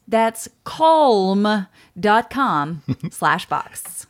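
slow, loud, drawn-out promo voice; slow ad read. Acted. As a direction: sell it like a radio ad.

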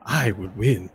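lightly voiced boastful halfling; halfling competitor. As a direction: declare victory to your fans as the halfling. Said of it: "And he goes".

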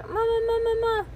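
very high wailed repetition; toddler wailing. A narrator's reading. Toddler trapped in rocking, high wail for mama.

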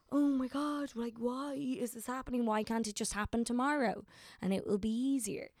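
acting out a little weepy moment; teary panic, lightly played; half-hearted mock weep. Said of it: "have a little weep of a moment".

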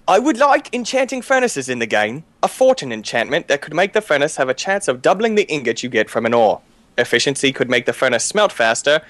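put-on measured British-accented reading. Reading a viewer's suggestion to the group, in a British accent. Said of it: "such a great British accent".

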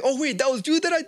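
high, laughing imitation of dawning surprise; mock realization. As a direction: play the shooter catching on. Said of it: "he was like".

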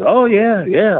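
mock cocky rookie bragging; imitating the braggart. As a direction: puff up like a know-nothing rookie. Retold bragging wannabe wrestler.

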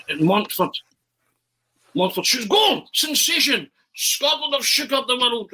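ecstatic high goal call, drawn out on goal; Arthur Montford commentary. Acted. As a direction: soar into a sensational commentator's goal cry. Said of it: "So I start commentating on myself".

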